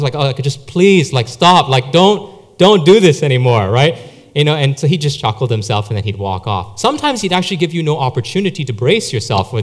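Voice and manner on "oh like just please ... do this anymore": imitated exasperated groan, a bit louder; groaning protest. Office workers hearing a lame joke, groaning in protest. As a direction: plead with the joker to stop, mildly groaning. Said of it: "you'd hear people groaning in the office".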